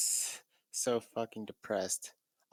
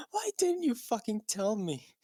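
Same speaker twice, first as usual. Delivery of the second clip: much higher, louder hammed-up yell; mock shout; 13 semitones higher, 4 dB louder than usual. Draco yelling at Ebony, hammed-up shout. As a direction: shout it like a soap opera. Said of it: "he shouted".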